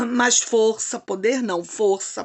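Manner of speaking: throat catching on the words; scratchy throat, pushing through; frog in throat. Real, not acted. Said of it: "peraí, gente".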